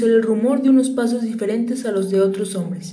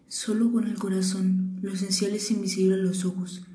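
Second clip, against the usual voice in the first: quiet repeating; 6 dB quieter than usual. Acted. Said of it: "repitió el principito para recordarlo".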